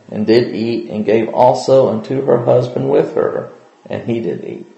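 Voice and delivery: measured King James Bible reading; formal scripture recitation. Acted. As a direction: read the old text with steady reverence. Reads Genesis chapter three aloud.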